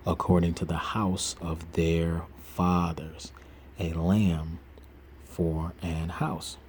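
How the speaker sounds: slow, measured Bible reading; scripture reading. Acted. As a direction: read the verses slowly and solemnly. Reads Exodus aloud.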